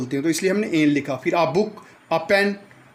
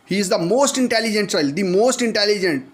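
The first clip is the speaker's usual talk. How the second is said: slow dictation; much slower than usual. Shown as a demonstration. Example sentence dictated slowly.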